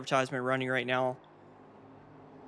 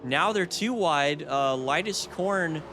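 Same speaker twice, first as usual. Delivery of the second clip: excited; 5 semitones higher than usual. Real, not acted. Cars suddenly three wide.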